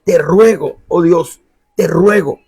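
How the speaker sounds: understated plea, repeated with feeling; mild pleading. Acted. Elisha begging God, mildly pleading. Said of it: "Eliseo rogó".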